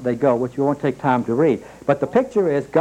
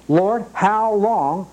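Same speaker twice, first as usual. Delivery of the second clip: slow, higher, drawn-out plea to God; pleading lament; 5 semitones higher, much slower than usual. Retold or imitated. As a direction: stretch it out like a weary prayer. Preacher voicing his own lament.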